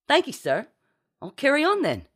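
high, eager reply; proud crewman. A narrator's reading. Percival accepts captain's praise, eager and proud. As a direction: answer your captain brightly and dutifully.

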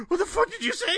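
high mock outrage, a woman on the phone; mock angry woman.

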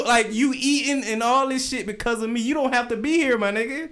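high-pitched imitation of an exasperated grandfather; granddad scolding. Granddad reminding the grandson who feeds him, mock rant. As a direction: lay it on like the man paying all the bills.

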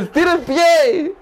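high, slow urgent command; urgent, high call. Real, not acted. Cohost urges the cramping friend to stretch, urgent high call. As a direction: insist he stretch his foot now.

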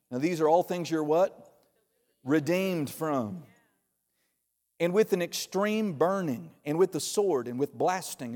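low, grave scripture reading. Acted. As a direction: read the curses solemnly. Reads curse verses aloud.

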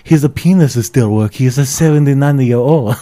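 put-on a broad, hammy Asian accent. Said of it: "And it's this one".

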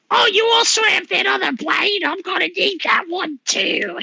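casual gruff-ish bouncer demanding the blade; bouncer NPC voice. Acted. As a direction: bouncer talking to the party, lightly voiced.

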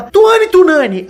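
high, slow, nervous full name; nervous girl voice. Retold or imitated. Girl at roll call giving her name, high and slow. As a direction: give the silly name in a small anxious voice.

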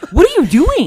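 high, loud question through laughter; incredulous scolding. Retold or imitated. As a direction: call out the teen in disbelief. Retells scolding older son.

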